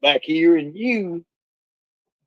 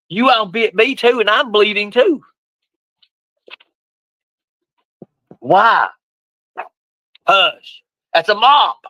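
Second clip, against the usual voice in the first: high upset dog talk; 8 semitones higher, slower than usual. Real, not acted. Bitten breaking up dogfight.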